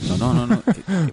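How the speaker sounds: high-pitched, rapid no-no-no; excited protest. Real, not acted. Friend assuring co-host it is no spoiler, high-pitched protest.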